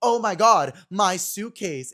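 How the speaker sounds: put-on, hammy, drawn-out delivery. Recalling their own awful acting in a group scene, redoing it as Disney Channel acting. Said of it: "The acting was awful. Very Disney Channel".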